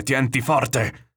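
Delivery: escalated cry to hold on, stretched slow; shouted warning. A narrator's reading. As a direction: call it out long over crashing waves. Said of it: "gli gridava il nonno".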